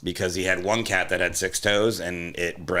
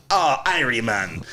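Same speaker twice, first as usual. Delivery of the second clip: bad Jamaican accent; 4 semitones higher, slower than usual. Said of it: "Jamaican accent".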